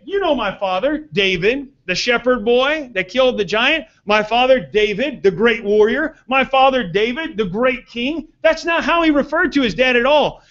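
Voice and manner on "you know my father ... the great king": boastful son. Retold or imitated. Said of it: "He could have said".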